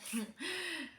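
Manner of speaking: short, soft laugh; quiet little acted chuckle; re-enacted laugh. Passenger at a loss on the bus, soft laughing. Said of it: "I even started laughing".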